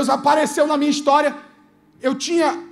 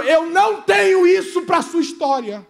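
louder and higher, slowed commanding voice; God shouting in a dream; 5 semitones higher, 5 dB louder than usual. Retold or imitated. God shouting in his ear during a dream, commanding. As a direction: boom it like a voice in a dream. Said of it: "gritou no meu ouvido dizendo".

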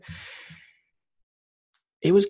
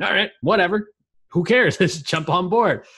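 high-pitched, breezy impression of a game wife; imitating wife; 8 semitones higher than usual. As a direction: mimic your wife agreeing lightly, pitched well up. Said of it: "she'd be like".

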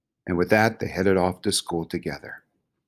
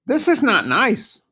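high, loud, slow objection; indignant animal pitched very high; Bongo; 5 dB louder, slower than usual. A narrator's reading.

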